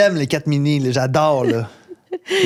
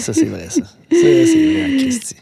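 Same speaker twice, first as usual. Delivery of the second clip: high mock voice; 12 semitones higher than usual. Mock dramatic agreement.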